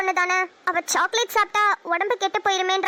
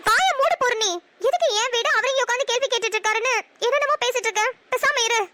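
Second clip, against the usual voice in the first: mildly raised, indignant reprimand; defiant rebuke; 3 semitones higher than usual. Acted. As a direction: stand up to her and silence her. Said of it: "ரொம்ப திமிரா பேசுற". (திமிராக அதட்டுதல்)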